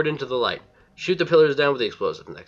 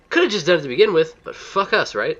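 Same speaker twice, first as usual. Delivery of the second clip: sarcastic; 6 semitones higher, 3 dB louder than usual. Real, not acted. Complaining about partner doing it late.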